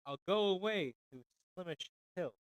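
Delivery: measured, lilting ballad reading with mournful refrains; poem recital. Acted. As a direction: recite it like an old sorrowful ballad. Reads a ballad aloud.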